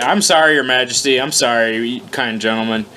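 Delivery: hammed-up courtly apology; bow and scrape in jest; overly formal mock sorry. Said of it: "I am not okay with reading this in front of polite company".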